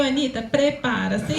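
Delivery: drawn-out, playful split syllables with a laugh; a singer. Retold or imitated. Joking to colleagues about separating syllables, playful singer impression. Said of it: "Fica meio".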